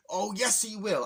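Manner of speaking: imitated fired-up retort; defiant retort. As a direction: insist on it like a loyal sidekick. Toad retorts to Cranky Kong.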